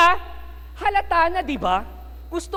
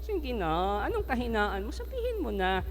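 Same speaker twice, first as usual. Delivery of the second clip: Delilah coaxing; 5 dB quieter, slower than usual. Acted. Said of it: "nagtanong si Delilah".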